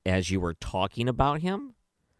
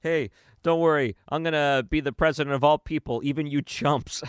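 raised, mocking politician's reassurance; mock Biden voice; 6 semitones higher than usual. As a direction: parrot a politician, hammed up. Mocking Biden's rally line.

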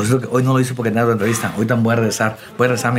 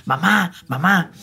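mock crying call; 4 semitones higher, slower than usual. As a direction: imitate a child wailing for his mother, held back. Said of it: "a llorar y a gritar". (llamando a mamá con llanto imitado, alargado)

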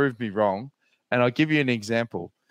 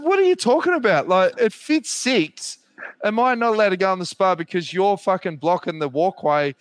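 retold exasperated retort; 5 semitones higher than usual. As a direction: fire back in disbelief, slowing on the middle line. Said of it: "I said".

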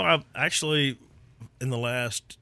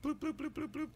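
squeaky bloops; 13 semitones higher, 12 dB quieter, faster than usual. Pretend. Counting-out game.

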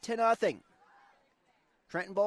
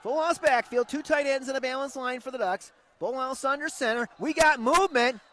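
play-by-play; 2 semitones lower than usual. Acted. Radio play-by-play.

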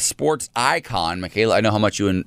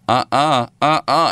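higher, louder disapproving uh-uh; emphatic no-no; 4 semitones higher, 4 dB louder, slower than usual. Retold or imitated. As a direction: shut it down hard. Retold reaction to phone.

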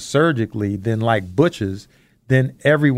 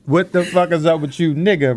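higher, casual street greeting; 5 semitones higher than usual. Retold or imitated. Father to son, showing how a friend says it, higher. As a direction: throw it at a buddy, loose and friendly. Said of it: "If they said it like that".

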